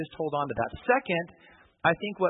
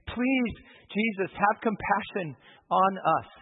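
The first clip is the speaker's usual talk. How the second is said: much higher, slow, aching request; pleading; 5 semitones higher, slower than usual. Retold or imitated. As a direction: draw out the plea to Jesus. Father begging Jesus.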